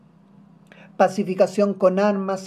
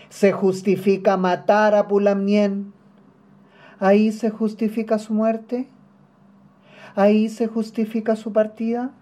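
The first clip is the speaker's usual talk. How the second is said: loud, forceful accusing questions, raised in pitch; indignant challenge; 3 semitones higher, 4 dB louder than usual. Acted. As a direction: throw the question out hard, demanding an answer. La pregunta repetida crece en fuerza. (reclamo indignado, con voz fuerte y alzada)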